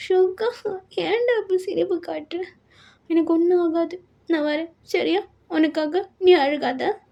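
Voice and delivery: a touch of gentle pleading; consoling beloved. Acted. Patient promises Suga she will return, consoling.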